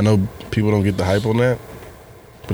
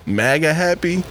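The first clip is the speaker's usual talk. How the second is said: laughing; 6 semitones higher than usual. Real, not acted. Laughing at phrase.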